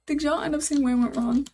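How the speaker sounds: asked through a laugh; laughing question to chat. Real, not acted. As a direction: laugh at your own blunder while asking. Laughs at own mistake.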